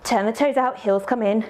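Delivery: slightly winded, breathy instructions; talking while catching breath. Real, not acted. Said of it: "I don't know why I'm so out of breath".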